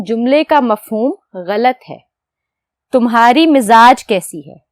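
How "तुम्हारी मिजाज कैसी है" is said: तुम्हारी मिजाज read as a doubtful mistake, falling; wrong gender, said to be questioned; questioning the wrong form. Shown as a demonstration. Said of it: "हम ऐसे पूछते हैं?".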